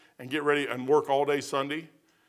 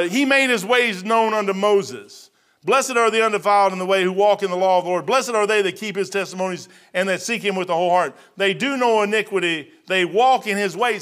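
scripture reading. Acted. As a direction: read the verses with solemn weight. Reads scripture aloud.

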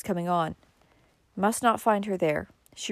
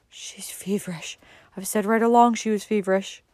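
moaning; 3 semitones higher than usual. A narrator's reading. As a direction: moan it weakly, then firmer. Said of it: "moaned Cousin Stickles".

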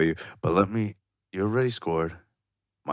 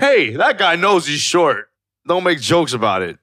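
slow, loud mock scolding; mock defensive tone; 5 semitones higher, 3 dB louder, slower than usual. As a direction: scold like a preachy fan. Mocking a defender.

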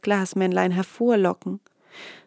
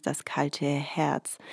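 whispering; 4 semitones lower, 6 dB quieter, much slower than usual. Real, not acted. Whispered story title.

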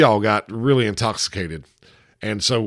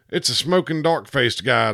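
sailor yells; 3 semitones higher than usual. Acted. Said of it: "the sailor yells".

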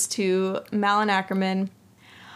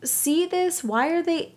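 exasperated disbelief; 7 semitones higher than usual. Retold or imitated. Reacting to confusing movie scene.

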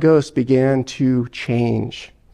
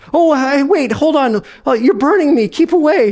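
higher, alarmed ghost recoiling from heat; ghost in pain; 10 semitones higher than usual. Acted. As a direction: yelp it out as the ghost gets burned.

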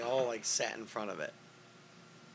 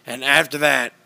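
lightly voiced, louder ranting host; Alex Jones impression; 5 dB louder than usual. Doing Alex Jones for friends on a podcast, mild loud rant. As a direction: rant on with mock certainty. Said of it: "This is Alex Jones reporting to you".

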